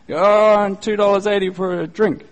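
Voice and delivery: a hint of a pleading drunk; drunk man. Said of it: "somebody who's drunk".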